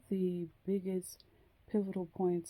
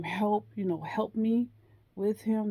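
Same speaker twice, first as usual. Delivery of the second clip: louder, higher mock cry for help; retold scream; 4 semitones higher, 5 dB louder than usual. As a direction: call out for help, half-playing the scream. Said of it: "and just scream".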